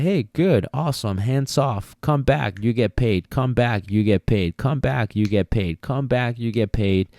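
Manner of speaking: sing-song praise for the dog; cheery praise to dog. Shown as a demonstration. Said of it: "I'm like".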